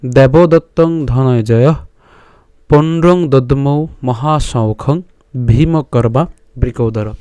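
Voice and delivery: measured, chanted reading of a Gita verse; Sanskrit verse recitation. Shown as a demonstration. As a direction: recite the shloka slowly, syllable by syllable. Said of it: "শ্লোকটি হলো".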